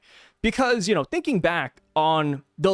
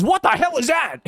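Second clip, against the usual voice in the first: horrified shriek; 8 semitones higher, 3 dB louder than usual. Retold or imitated. Mother recoils from her baby.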